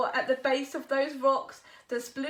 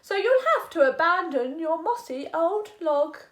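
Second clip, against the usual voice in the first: a slightly louder hog, stressed youll; hog's condition; 3 semitones higher, 8 dB louder than usual. Acted. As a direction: lay down terms. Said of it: "sniffed the hog".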